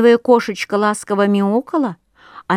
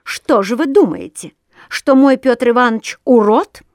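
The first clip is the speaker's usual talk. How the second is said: offended; 3 semitones higher, 5 dB louder than usual. Acted. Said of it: "страшно обиделась и заявила".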